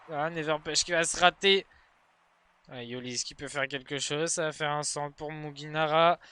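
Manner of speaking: quick running play-by-play; esports caster. Acted. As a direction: follow the ball breathlessly. Live Rocket League match commentary.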